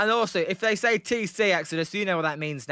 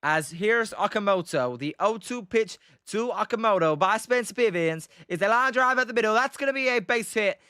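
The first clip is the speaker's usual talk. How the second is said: hammed-up American sportscaster accent, climbing higher on the hit; 3 semitones higher than usual. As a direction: call the base hit in an over-the-top American play-by-play accent. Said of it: "You got one play-by-play, um, in an American accent".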